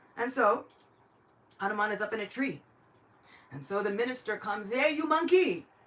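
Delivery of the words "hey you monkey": furious angry shout, high-pitched and loud. Telling a story for a young nephew, the minister shouts at the monkey in a tree: angry shouting. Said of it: "And he's shouting at Hanuman".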